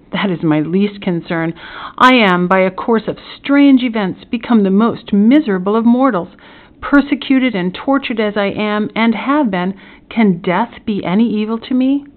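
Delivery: a touch of tormented protest; mildly impassioned, weary of living; lightly voiced despairing prisoner. Prisoner laments his misery to the magistrate, mild despair.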